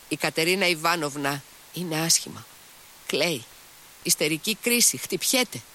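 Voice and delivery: a hint of a panicked servant, rising as it goes; alarmed maid. Maid reporting a fit of hysterics, alarmed.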